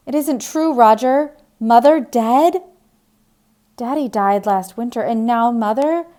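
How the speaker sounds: high, loud, shaken questions; upset disbelief. Acted. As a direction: she can't believe her mother is dead. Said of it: "Diane began to cry".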